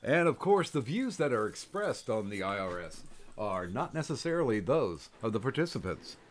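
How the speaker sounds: announcer reading a broadcast disclaimer; measured, formal mock announcement. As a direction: recite it like official small print.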